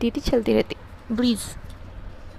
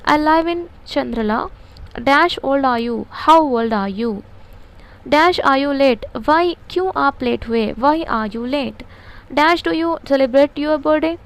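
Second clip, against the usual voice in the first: slow, word-by-word dictation read; much slower than usual. Shown as a demonstration. Teacher dictating a model answer to students, very slow and deliberate. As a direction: spell it out slowly so they can write.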